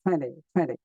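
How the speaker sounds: টোয়েন্টি said as twen-ee with the middle t gone; dropped t. Shown as a demonstration. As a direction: say টোয়েন্টি as twenny, no t after n. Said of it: "টোয়েন্টি কে বলা যায় টোয়েন্টি".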